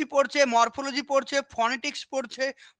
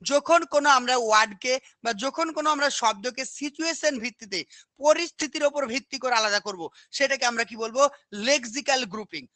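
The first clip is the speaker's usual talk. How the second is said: normal talking voice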